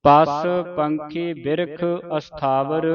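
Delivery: ਪਸ said short, no sh and no u; ਪਸ clipped to one syllable; say pas not pashu. Shown as a demonstration. Teacher correcting students, clear ਪਸ not ਪਸ਼ੂ. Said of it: "ਇਹਨੂੰ ਪਸ ਬੋਲਣਾ ਹੈ".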